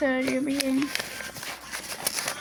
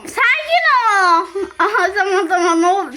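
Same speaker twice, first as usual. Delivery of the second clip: laughing; 3 semitones higher, 5 dB louder than usual. Real, not acted. Laughing while playing.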